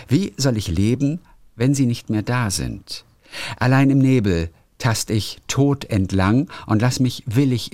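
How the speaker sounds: measured, solemn poetry reading with pauses between phrases; poem recitation. Acted. Podcast host reading a listener's favourite poem, measured recitation. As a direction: recite the verse deliberately, letting line ends fall.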